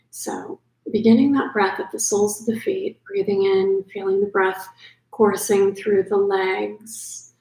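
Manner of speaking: unhurried yoga nidra guidance with long pauses; calm sleep-meditation voice, leaving space between phrases; guided meditation. Acted. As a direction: ease the listener gently toward sleep.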